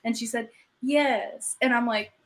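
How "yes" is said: put-on higher Southern-accented yes. Southern caller confirming to store clerk she means yams, Southern accent. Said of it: "the Southern accent from Henry's".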